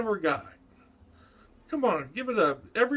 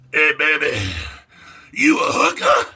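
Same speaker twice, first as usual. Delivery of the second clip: loud hollered call-out; 10 dB louder than usual. Acted. Mock calling out to women on the street, loud holler.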